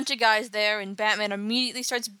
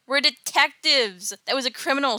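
indignant protest; 4 semitones higher, 5 dB louder than usual. Retold or imitated. Detectives scold Dick for interfering.

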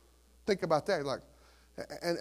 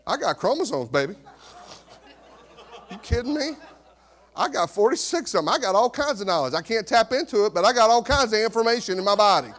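mock-indignant husband's brag; puffed-up comic boasting; cocky comeback; 3 semitones higher, 3 dB louder than usual. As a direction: brag back with playful swagger, building louder. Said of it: "So next time your wife says".

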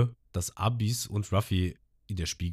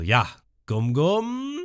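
Ruffy-Stimme; 9 semitones higher, 5 dB louder, much slower than usual. Retold or imitated. Ruffy antwortet Nami.

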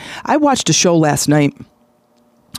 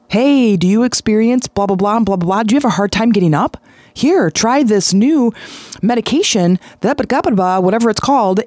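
higher, hammed-up pitchman voice racing then slowing on the product; mock drug commercial; 4 semitones higher than usual. Mocking late-night drug ads to his viewers, hammed-up pitchman. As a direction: mimic a cheesy TV drug ad. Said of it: "Every single commercial was a drug commercial".

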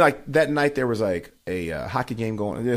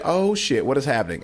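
retold crowd shock; 3 semitones higher than usual. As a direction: play a startled crowd reacting. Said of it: "the crowd is like".

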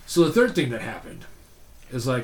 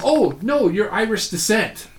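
mock woman's voice; 8 semitones higher, 4 dB louder than usual. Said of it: "She goes".

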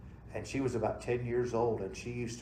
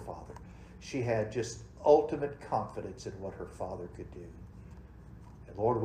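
closing prayer; 2 semitones lower than usual. Acted. Pastor leads closing prayer.

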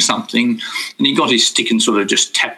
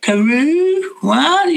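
nervous confusion; 12 semitones higher, slower than usual. Retold or imitated. Nervous speaker answering the guru.

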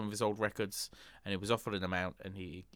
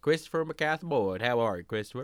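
put-on country accent. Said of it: "we're getting a little bit country".

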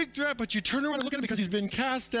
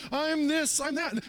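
bragging; 6 semitones higher than usual. Retold or imitated. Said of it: "They're always bragging".

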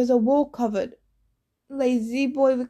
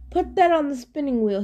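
lightly voiced proud Cyclops giving orders; a hint of a smug monster; 3 semitones higher than usual. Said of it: "he said proudly".

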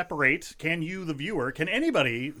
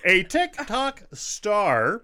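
1950s narrator; 5 semitones higher, much slower than usual. Acted. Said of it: "old-timey, like, voice in my head".

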